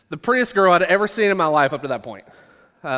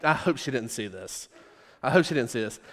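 soft, pleading murmur under the breath; hushed prayer; 5 semitones lower, 7 dB quieter than usual. Retold or imitated. Praying under his breath that the girl didn't see, hushed. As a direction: pray quietly that she missed it. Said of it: "and I'm just praying".

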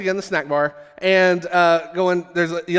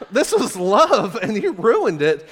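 laughing lament; 4 semitones higher, slower than usual. Real, not acted. Laughing at his own heartbreak.

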